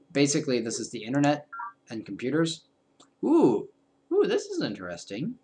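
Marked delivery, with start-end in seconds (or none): 3.2-5.3 high delighted ooh; pleasantly surprised. Real, not acted. Discovering new option.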